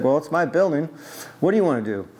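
lightly mimicked Greek-accented owner; imitated older Greek man's accent; thick Greek accent. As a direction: sound proprietorial with a hint of a Greek accent. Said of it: "he had a thick accent".

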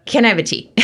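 high, nervous little request; retold jittery, squeaked-up question; nervous freak-out. Asking a scary flight attendant for tea, nervous freak-out. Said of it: "I freak out and I'm like".

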